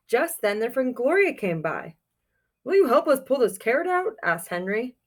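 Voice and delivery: put-on reading a picture book aloud to children; storybook reading. A narrator's reading. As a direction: tell it like storytime for kids.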